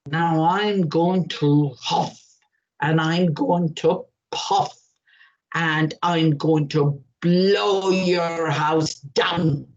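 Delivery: slow, low big bad wolf threat. Wolf slowly threatening the pig in his straw house. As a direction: drag out the huffing and puffing.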